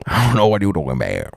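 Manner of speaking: quick, badly faked Cajun; mock Cajun accent. Repeating an accent attempt called horrible, mock Cajun. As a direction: run it together in a put-on Cajun twang.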